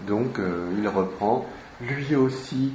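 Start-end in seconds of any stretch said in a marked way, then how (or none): 1.8-2.7 understated moan, lightly acted; a touch of a groaning complaint. Character complains about his friend, mild moaning. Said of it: "qu'il dit en gémissant".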